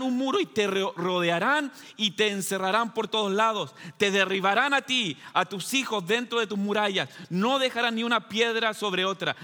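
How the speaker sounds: mildly stern scripture reading; severe, forceful. Acted. Preacher reads Jesus' warning to the congregation, mildly severe and forceful. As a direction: read the warning with measured force, as Jesus' rebuke. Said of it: "repite con mayor severidad, con mayor fuerza".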